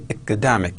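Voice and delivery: "academic" modelled for word stress; teacher's careful stress demo of "academic"; stress on second syllable. Shown as a demonstration. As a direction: show where "academic" takes its stress. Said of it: "Stress on second syllable".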